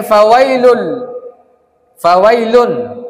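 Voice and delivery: slow, stretched recitation of the word; Quran recitation. Shown as a demonstration. Teacher returning to the verse, slow recitation. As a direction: draw out the verse's long syllables.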